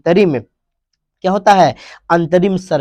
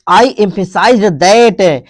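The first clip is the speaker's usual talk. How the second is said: slow reading; 3 semitones higher, 4 dB louder, much slower than usual. Shown as a demonstration. Teacher reads English quote slowly.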